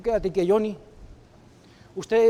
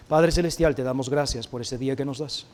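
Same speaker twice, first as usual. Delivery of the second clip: earnest prayer voice, lower and measured; heartfelt prayer; 4 semitones lower than usual. Acted. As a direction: pray aloud for the congregation. Leads a closing prayer. (oración sincera y pausada)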